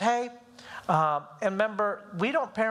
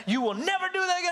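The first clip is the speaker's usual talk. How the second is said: raised, mock-stern warning; scary voice redone; 9 semitones higher than usual. Dad warns his crying son, mock scary voice. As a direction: retell a dad's scary warning at a higher pitch. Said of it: "I do the same thing".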